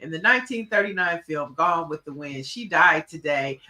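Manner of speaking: settled, low-pitched explainer voice; informative fact reading. Real, not acted. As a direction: read out a history fact, composed. Reads out her black fact.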